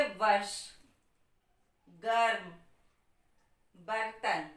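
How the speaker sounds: वर्ष, गर्म, बर्तन with no अ after र, the र run straight into the next consonant; model pronunciation. Shown as a demonstration. Teacher modelling वर्ष गर्म बर्तन for students to repeat. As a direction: say वर्ष गर्म बर्तन slowly and clearly, र without a vowel. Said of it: "आप बोल के देखिए".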